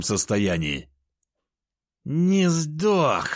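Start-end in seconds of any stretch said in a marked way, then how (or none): 2.0-3.3 furious growl. A narrator's reading. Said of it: "яростно прорычала".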